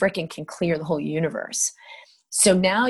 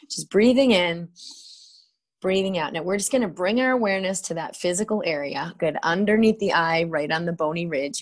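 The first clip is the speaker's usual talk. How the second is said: calm, measured guiding voice, breaths left open; guided tapping meditation. Acted. Healer guiding a client through tapping, calm and measured. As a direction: lead the listener gently point by point.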